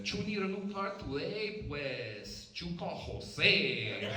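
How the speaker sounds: high, slow mock Latino lawyer pitch; mock Latino accent. Comic imitates a Latino attorney's ad in a mock accent. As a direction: stretch it out like a cheesy ad. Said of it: "we need a Latino one too".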